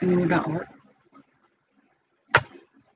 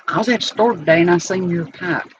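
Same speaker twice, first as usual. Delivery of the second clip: a light imitation of an Alabama accent, a bit louder; 7 dB louder than usual. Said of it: "so I can do his accent because of Alabama".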